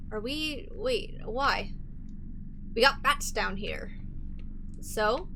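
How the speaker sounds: a hint of an unhurried boat guide; lightly voiced boat operator. Boat operator instructing a passenger about bats, lightly voiced guide.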